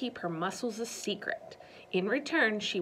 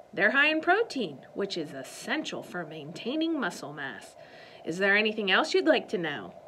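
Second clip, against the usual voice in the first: louder, brisk and superior, speeding up at the end; haughty explanation; 4 dB louder than usual. Acted. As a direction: put the nosy kid in her place. Miss Girk defends herself haughtily.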